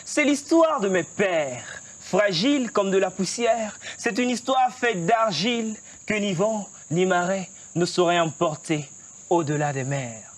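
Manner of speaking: full stage declamation of the refrain; slam poetry. Shown as a demonstration. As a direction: project the refrain with poetic swing. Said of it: "Tu nous déclames un texte?". (refrain de slam déclamé avec force)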